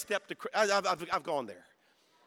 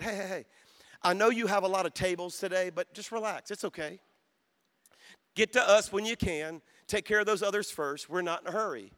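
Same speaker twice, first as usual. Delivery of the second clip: calming. Retold or imitated. Calming the frantic waitress.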